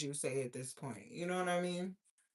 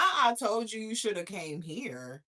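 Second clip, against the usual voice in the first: indignant repeat of someone's words; scornful, livelier echo; mocking echo; 2 semitones higher, 3 dB louder than usual. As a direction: throw the remark back in disbelief. Echoes the cousin's words in disbelief.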